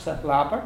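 "Sa flapper" with a light breathed hl for the chl; very soft ch. Shown as a demonstration. Teacher modelling Donegal "Sa flapper", soft breathed hl. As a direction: let the first sound of "flapper" be a soft h before l. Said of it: "very soft".

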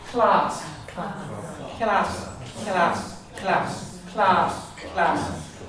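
class with contrasting K sounds; Irish and English class. Shown as a demonstration. Teacher contrasting trip and run. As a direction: alternate the two K sounds. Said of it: "the word for a trip".

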